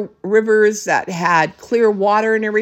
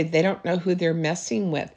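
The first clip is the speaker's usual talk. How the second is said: softer, humble and grateful, not boasting; grateful heart; 3 semitones lower, 8 dB quieter, faster than usual. Shown as a demonstration. Pastor showing the humble way to say it, softly grateful. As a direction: say it quietly, as a thankful child of God. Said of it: "And I say it with a grateful heart".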